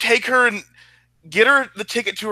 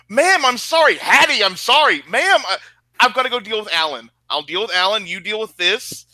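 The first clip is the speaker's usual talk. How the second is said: flustered apology; 3 semitones higher than usual. Acted. Hurried apologies while fleeing.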